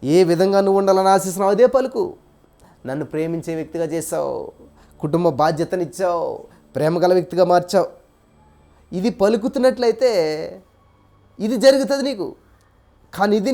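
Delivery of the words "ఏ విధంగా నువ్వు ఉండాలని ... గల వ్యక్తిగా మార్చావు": model prayer. Shown as a demonstration. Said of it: "ఏమని అడగాలి".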